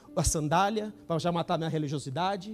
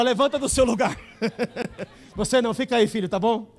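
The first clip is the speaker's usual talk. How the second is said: louder, firm call to stand; commanding call; 4 dB louder than usual. Retold or imitated. Prophetess calls the young preacher to the altar, firmly. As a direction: summon him up to the front.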